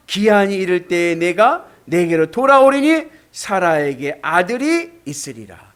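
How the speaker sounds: loud, slow solemn proclamation; scripture reading. Acted. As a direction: proclaim God's word. Reads scripture loudly. (장엄한 말씀 낭독)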